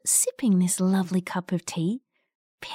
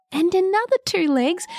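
higher, building wonder; rising suspense; 7 semitones higher than usual. A narrator's reading. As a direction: climb up for the last one. Repeated legs, rising suspense.

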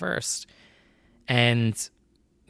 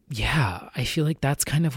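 whisper; 3 dB quieter than usual. Real, not acted. Trailing off in nervousness.

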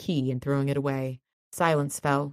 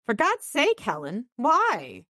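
shocked plea; 7 semitones higher, slower than usual. Acted.

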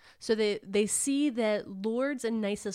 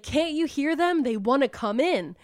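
higher mock yell, insistent; raised, urgent imitation of shouting; retold scream; 5 semitones higher, 4 dB louder than usual. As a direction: act out a frantic man pleading. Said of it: "He's screaming".

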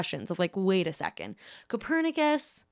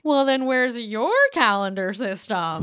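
mocking; 3 semitones higher, 4 dB louder than usual.

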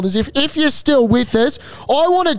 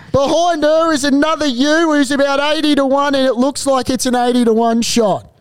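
race caller. Acted. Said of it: "if that call didn't impress you".

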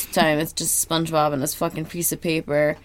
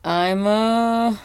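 SpongeBob impression; 4 semitones higher, 3 dB louder than usual. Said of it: "he's doing different impressions".

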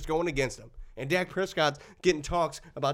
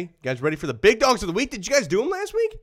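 hype host; 5 semitones higher than usual. Acted. Hyping the big dogs segment.

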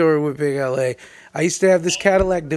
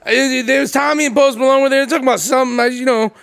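fast, higher-pitched vague mumbo-jumbo; mock evasive informant; 5 semitones higher, faster than usual. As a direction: imitate a suspect giving up just enough. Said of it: "You sound like you're trying to give the police just enough".

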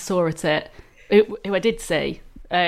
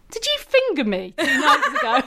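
laughing question; 10 semitones higher than usual. Retold or imitated. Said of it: "I just turned around to her and went".

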